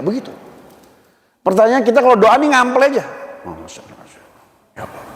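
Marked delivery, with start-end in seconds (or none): 3.4-5.0 much softer, rushed perfunctory murmur; mock hasty prayer. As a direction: toss off a prayer under the breath.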